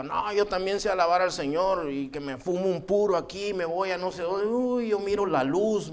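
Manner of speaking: mock-pious boasting, put on in imitation; mocking boss. Boss making fun of a Christian employee, mocking. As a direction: mimic a scoffing boss, drawing out the end. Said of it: "siempre llegaba con una risa burlona".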